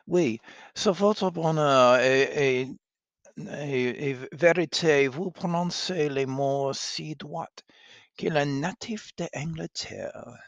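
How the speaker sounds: bright flattering maid voice; flattering lady's maid. Acted. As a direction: gush over the princess. Alice flatters her mistress.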